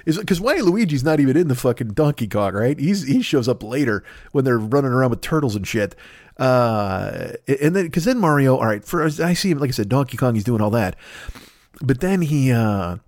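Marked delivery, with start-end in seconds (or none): none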